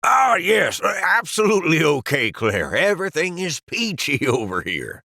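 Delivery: covering for his nervous friend; fake cheerful cover-up. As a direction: caught out, playing it cool badly. Caught out, overly cheery cover.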